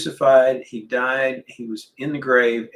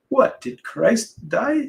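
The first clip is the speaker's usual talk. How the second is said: put-on slow, higher Argentine-accented English; mom's Argentine accent; 10 semitones higher, 3 dB louder, slower than usual. Son imitating his Argentine mom's comforting words, Argentine accent. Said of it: "she has this beautiful, uh, Argentine accent".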